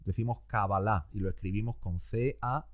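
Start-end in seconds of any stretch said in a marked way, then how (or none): 0.5-1.1 "Kabbalah" stressed on the last syllable, ka-ba-LA; Spanish pronunciation. Shown as a demonstration. Host showing the Spanish form, "Kabbalah" as ka-ba-LA. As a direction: say "Kabbalah" Spanish-style, landing on LA. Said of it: "En español decimos".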